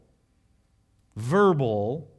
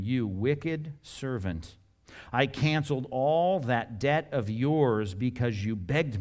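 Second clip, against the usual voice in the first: slow stern master; slower than usual. Acted. Master rebukes the servant.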